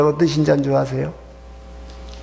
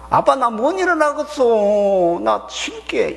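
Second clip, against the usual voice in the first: put-on higher, drawn-out whine of a child; child to dad; 7 semitones higher, slower than usual. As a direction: whine to Dad, dragging the words. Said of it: "부모와 자식 간에는요". (아빠에게 길게 늘여 투정하는 자식 말투)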